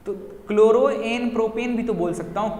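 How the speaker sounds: a lightly voiced puzzled student, rising at the end; teacher mimicking a doubtful pupil asking about chloro; student's question. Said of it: "एक doubt और आ सकता है आप लोगों को बच्चों".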